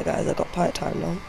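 talking while munching crisps; crunching chips. Real, not acted. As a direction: mouth full of crisps. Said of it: "Sorry if you can hear me crunching".

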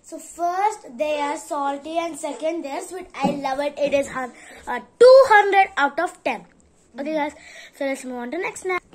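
talking with food in mouth; chewing while talking. Real, not acted. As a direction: mouth partly full. Seen 0: Took a bite at -7; mouth keeps chewing throughout the speech.

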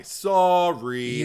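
"sorry" with an open "saw" first syllable. Shown as a demonstration. Spelling it out for co-host, open-vowel "sorry". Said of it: "S A W R Y".

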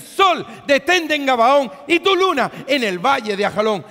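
loud, high command to the sun; booming command to the heavens; commanding prayer. Pretend. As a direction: order the sun to stand still. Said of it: "Tú dices".

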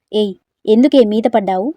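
loud, irritated complaint; loud fed-up question; annoyed yell. Acted. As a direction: yell at her after the fall. After falling down together.

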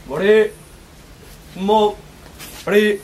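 sharp, loud martial arts yells; kiai shout. Real, not acted. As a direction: shout each strike high and hard. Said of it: "기합까지 넣으시기 바랍니다".

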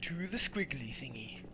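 whispered repeat to himself. Acted. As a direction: hush it like a sneaky secret. Whispered repeat of previous line.

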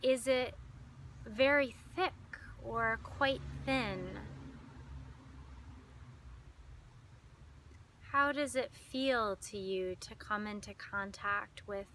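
calm meditation guide with long pauses; unhurried, lingering phrases, leading listeners inward; guided meditation. Acted.

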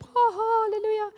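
high, bright-sounding sing-song mock cheer; mock chirpy. Preacher mocking her own cheery morning praise, high sing-song. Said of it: "I don't wake up every single morning all chirpy".

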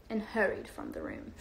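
a lightly put-on British accent for reading aloud. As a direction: read the story in a gentle, amateur British accent. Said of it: "Sorry for my terrible British accent".

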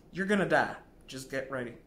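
loud, blunt verdict; blunt doctor. Retold or imitated. Doctor to dying patient, loud and blunt. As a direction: drop the news on her bluntly. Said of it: "the oncologist was blunt".

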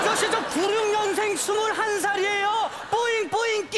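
high comic whine; protest, then turn it into baby-cute pleading; indignant, cutesy protest. Acted. Customer insists he is only twenty-one.

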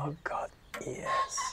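very high, breathless surrender; ecstatic surrender. Acted. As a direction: gasp it out in rapture. Lover surrendering.

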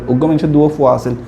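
quick Chittagonian example; fast local Chittagong speech; Chittagong dialect. Shown as a demonstration. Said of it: "এটা আমরা চট্টগ্রামে বলি".

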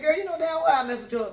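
quick, sassy clapback; sassy retort. Retold or imitated. Almost telling the coworker off, sassy and quick. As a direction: snap it back with attitude. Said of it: "I started saying".

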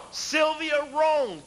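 Sylvia Rhone shouted slow and drawn out; a slow, full-voiced shout of the name; loud shout. Real, not acted. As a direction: call the name out to the crowd. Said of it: "You can't say it no louder than that".

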